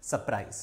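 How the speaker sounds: सरप्राइज as "suh-prai", no R; correct pronunciation. Shown as a demonstration. Teacher repeating the correct सरप्राइज for students. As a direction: say सरप्राइज lightly without the R. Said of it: "इसका जो सही pronunciation है".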